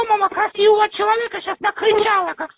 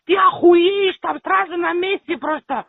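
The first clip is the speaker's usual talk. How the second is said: shouting match. Real, not acted. Phone quarrel, cursing caller.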